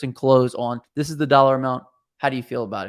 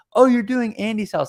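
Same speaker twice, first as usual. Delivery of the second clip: excited lilting voice, higher in pitch; 9 semitones higher than usual. Commenting on a recording, the speaker mimics the woman's reaction: imitating her excited inflection. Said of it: "the inflection in her in her voice".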